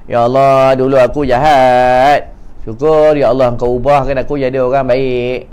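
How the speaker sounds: drawn-out, lightly acted weepy confession; mock tearful prayer. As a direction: plead slowly as if mildly tearful. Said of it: "Dia menangis, ya". (pura-pura berdoa sambil menangis)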